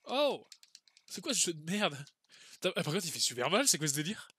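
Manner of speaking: loud, exasperated swearing at the game; furious outburst at the screen; raging gamer. Real, not acted. Raging at a hard boss fight.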